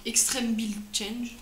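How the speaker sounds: a French speaker's clumsy English accent on the product name; bad English accent. Real, not acted. Reviewer reading the English product title, in a bad English accent. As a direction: attempt the English accent, a bit awkwardly. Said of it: "Excusez mon accent anglais pourri".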